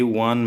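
ওয়ান begun with a clear "wa" sound; pronunciation demo. Shown as a demonstration. Teacher showing students the first sound, ওয়ান opened on "wa". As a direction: show the "wa" opening of ওয়ান. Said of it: "ওয়া এর উচ্চারণ আসতেছে".

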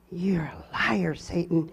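slow, whispered retort, as if thought; inward rebuke. Retold or imitated. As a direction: say it under your breath, drawn out. Silent rebuke in her head retold.

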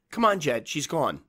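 high, tense coaxing; shaky reassurance to the dog; nervous coaxing. A narrator's reading. Frightened woman coaxing her dog.

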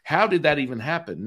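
high, astonished retelling; imitated freaking out. Friends watch the man come out of trance, mock astonished. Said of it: "the friends are freaking out".

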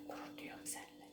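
soft whispered praise; whispering. Real, not acted. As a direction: breathe it in a whisper.

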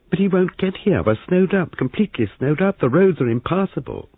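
alarmed protest. Acted. Molly alarmed, snowed up.

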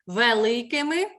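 «Великими» with distinct first Е, rising at the end; clear Е sound. Shown as a demonstration. Teacher confirms spelling to pupil, clear Е in «Великими». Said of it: "тут чітко чути звук Е".

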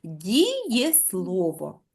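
Дієслово stretched very slowly, every syllable held long; teacher slowly stretching Дієслово to find the stress; drawn out. Shown as a demonstration. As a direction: pull Дієслово out slowly, vowel by vowel. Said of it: "треба слово вимовити протяжно".

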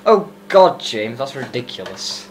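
Gabe impression. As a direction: mimic an exasperated friend. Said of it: "Do your impression of Gabe".

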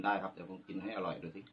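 biting into tomato; chewing a tomato. Real, not acted. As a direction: mouth full of tomato. Seen 1: Bites tomato 12.3-14.3, chews closed-mouthed 15.3; earlier only holds tomatoes.

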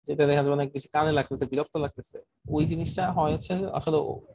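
choppy, breaking-up online audio; buffering stutter. Real, not acted. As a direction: voice cutting in and out. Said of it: "কথা কেটে কেটে যাচ্ছে".

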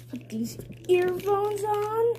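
slow breathy whisper. Real, not acted. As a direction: whisper it slowly. Whispering before putting on earphones.

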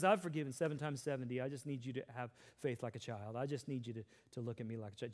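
soft, tender voice; gentle Jesus. Retold or imitated. Jesus speaking to his followers, soft and tender. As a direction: speak it gently like a caring father. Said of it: "And Jesus says".

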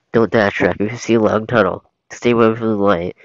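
loud frantic pleading; frantic yelling. Acted. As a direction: shout in a panic. Donkey yelling frantic advice.

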